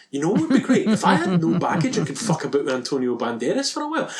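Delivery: a cheeky mock daydream, giggling; mock wishful. Joking about wanting no baggage with Banderas, laughing and rushing. Voicing own mock thoughts.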